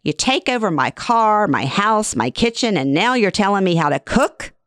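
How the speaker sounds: mildly hurt, indignant protest. Acted. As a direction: mom storming off, indignant. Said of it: "she says indignantly".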